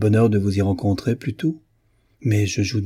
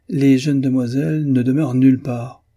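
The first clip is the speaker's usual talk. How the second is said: satirical interruption; 4 semitones higher, 5 dB louder than usual. Acted. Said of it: "interrompit encore une fois madame Selwyn".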